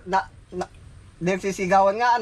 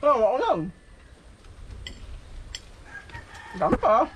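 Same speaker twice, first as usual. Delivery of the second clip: laughing; 7 semitones higher than usual. Real, not acted. Laughing, teasing Francis.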